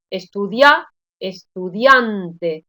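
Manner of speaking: drawn-out "estudiante", i sliding quickly into a strong a; diphthong pronunciation. Shown as a demonstration. Teacher showing students the vowel contrast, "estudiante" as a slow diphthong. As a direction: say "estudiante" with "ia" glided into one syllable, stressed on the a. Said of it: "notad cómo las pronuncio de manera diferente".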